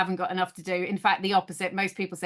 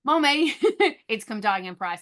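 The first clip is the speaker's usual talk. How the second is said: son's voice; 2 semitones higher, 3 dB louder than usual. Retold or imitated. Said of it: "he'll go".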